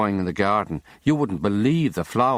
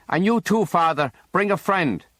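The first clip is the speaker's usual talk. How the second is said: higher, cheery Irish brogue; Irish invitation; 9 semitones higher than usual. A narrator's reading. Boatman inviting the priest ashore, cheery Irish brogue. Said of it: "an Irish voice".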